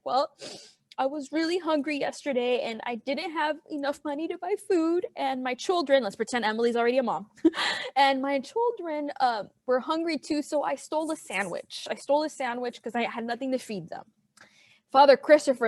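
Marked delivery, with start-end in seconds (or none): 0.0-6.0 higher, softer pretend sob story; mock crying voice. Baker explains her hunger to the priest, mildly tearful put-on voice. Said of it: "my crying voice". 8.0-14.0 soft, lightly acted tearful confession; mock crying voice. Mother admits stealing food to the priest, in a soft mock-tearful voice. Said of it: "my crying voice".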